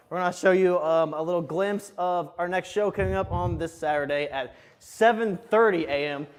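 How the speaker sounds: breathless promo read; out of breath, pushing the words out. Real, not acted. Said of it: "I'm out of breath".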